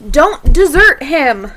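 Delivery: "desert" said as de-ZERT, stress on the second syllable; teacher demo, "desert" as the verb. Shown as a demonstration. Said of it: "pronounced a little bit differently".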